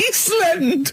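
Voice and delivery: laughing out the word, high and slow; cracking up mid-word. Real, not acted. Laughing at Carl's remark.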